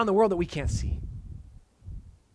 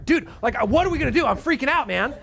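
higher, louder, laughing panicky servant; mock freaking out; 6 semitones higher, 4 dB louder, faster than usual. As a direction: ham up the terrified servant with a laugh. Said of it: "he's freaking out".

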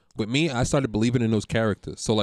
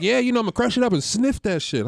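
Southie guy voice; 10 semitones higher than usual. Retold or imitated. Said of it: "he's like".

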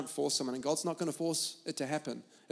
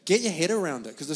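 firm; 3 semitones higher than usual. Retold or imitated. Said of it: "I'm teaching my kids".

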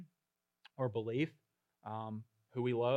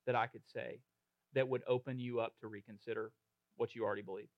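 gentle invitation; 3 semitones lower, 3 dB quieter, faster than usual. Retold or imitated. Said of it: "just be like".

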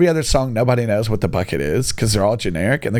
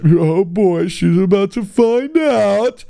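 gleeful mock whisper-to-self; 7 semitones higher, slower than usual. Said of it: "I was like".

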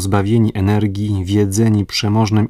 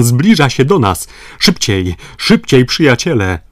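loud, urgent, higher calls; excited shouting; 3 semitones higher, 6 dB louder than usual. Acted. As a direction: urge the rowers on toward the steamer. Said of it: "zawołał".

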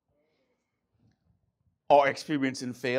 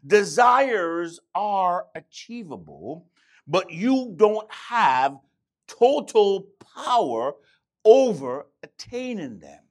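slow emphatic repeat; 3 semitones higher, 6 dB louder, slower than usual. Shown as a demonstration. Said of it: "let me say that again".

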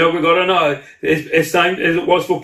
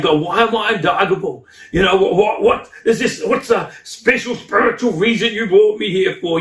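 plaintive questioning; 4 semitones higher than usual. Retold or imitated. Acts out questioning God.

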